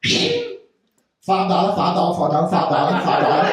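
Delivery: slow drawn-out hustler chant; lightly accented pushy street vendor; mock street hustler. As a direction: drag out the price like a costumed hustler. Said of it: "It's something like".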